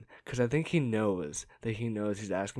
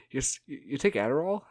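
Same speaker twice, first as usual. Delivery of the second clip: loud question; 4 semitones higher, 4 dB louder than usual. Retold or imitated. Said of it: "as loud as he possibly can".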